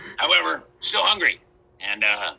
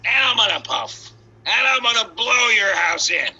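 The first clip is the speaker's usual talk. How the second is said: wolf's threat; 5 semitones higher than usual. Acted. Wolf threatens brick house.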